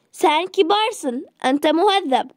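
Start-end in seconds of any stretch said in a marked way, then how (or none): 0.1-1.3 slow, careful model sentence for learners; slow and clear. Shown as a demonstration. Teacher models Sen kibarsın for students, slow and clear. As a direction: spell out Sen kibarsın slowly for the class. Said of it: "teacher models the sentence".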